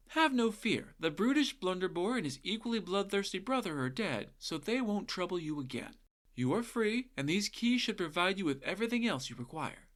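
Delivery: a hint of a chivalrous boy hero; young hero voice. Jack frees the captive ladies.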